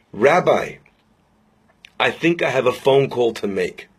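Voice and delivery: low, hushed, softly moved, without sobs; tearful resolve. Retold or imitated. Old man in tears answering the rabbi, quietly moved. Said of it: "he starts crying".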